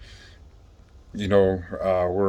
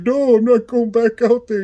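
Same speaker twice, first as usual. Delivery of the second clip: high, louder mock refusal; defiant refusal; 14 semitones higher, 6 dB louder than usual. Inmate refuses to go back, high mock defiant shout. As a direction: dig in and refuse the guard.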